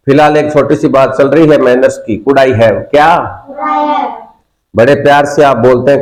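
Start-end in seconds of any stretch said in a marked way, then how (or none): 3.5-4.1 class repeating. Real, not acted. Class repeats after teacher.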